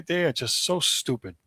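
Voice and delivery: indignant, fed up; mad. Real, not acted. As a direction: vent real disgust at their decision. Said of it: "I am so mad at this".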